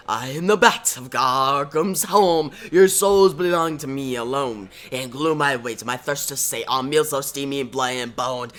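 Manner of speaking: slightly theatrical villain reciting a rhyme; a hint of sinister incantation; lightly voiced creepy madman. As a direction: chant it like a mad prophet, lightly. Reciting Jervis Tech's rhyme.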